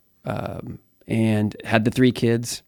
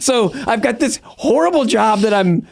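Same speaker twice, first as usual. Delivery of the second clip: words bubbling with a laugh, pitched up; laughing while talking; 10 semitones higher than usual. Real, not acted. Telling the host about his hopeless job, laughing. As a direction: laugh through the line at your own bad luck. Joke about not speaking Spanish.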